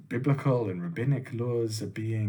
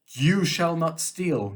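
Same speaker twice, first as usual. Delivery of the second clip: slow, raised commandment; God commanding Moses; 4 semitones higher, 4 dB louder, slower than usual. Acted. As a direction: lay down the law to one listener, slowly. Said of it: "I'm going to say".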